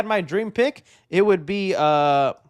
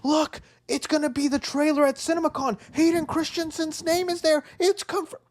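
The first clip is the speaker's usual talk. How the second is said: mock hyped fan; 10 semitones higher than usual. Mock hype of a rumour.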